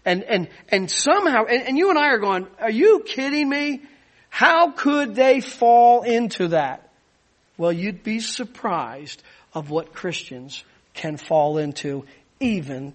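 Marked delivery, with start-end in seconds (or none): 2.6-6.9 mock incredulity. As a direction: imitate baffled disbelief, higher at first, then slowing. Voices listeners' incredulous reaction.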